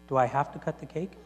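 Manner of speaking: soft, quick, hesitant question; hushed asking. Retold or imitated. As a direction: ask it softly, almost shyly. Overwhelmed Agnes asks timidly.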